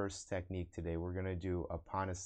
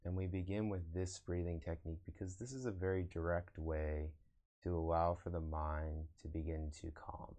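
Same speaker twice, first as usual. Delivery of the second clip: guided meditation. Acted. Meditation teacher guiding online viewers to observe the breath, guided meditation. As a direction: lead them into breath awareness, unhurried.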